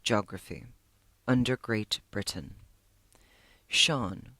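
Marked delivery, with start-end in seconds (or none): 0.0-2.6 clipped, lower staccato reply. Acted. Librarian answering Sean without looking up, staccato. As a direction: bite off each word, dismissive.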